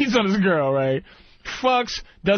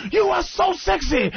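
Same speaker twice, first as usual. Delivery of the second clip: a cheater's over-the-top come-on, raised pitch; hammed-up seducer; 9 semitones higher than usual. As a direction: play the cheating lover laying it on. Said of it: "He goes".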